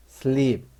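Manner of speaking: sleep with a long ee; demonstrated long E in sleep; long E sound. Shown as a demonstration. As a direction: say sleep with a clear ee vowel. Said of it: "이는 장모음 이가 된 거죠".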